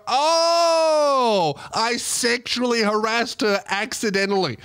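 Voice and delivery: realizing what he had done; dawning realization. Retold or imitated. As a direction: let it dawn on you with a long Oh. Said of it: "I go".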